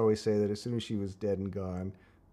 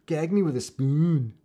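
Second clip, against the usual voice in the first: put-on louder, drawn-out valley girl; 4 semitones higher, 8 dB louder, slower than usual. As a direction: camp Valley Talk line. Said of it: "remember Valley Talk?".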